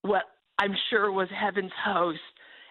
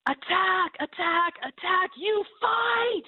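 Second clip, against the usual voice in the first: urgent battle cry; 12 semitones higher, slower than usual. Retold or imitated. Retelling the lion charge, she shouts attack at it. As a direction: call herself to charge.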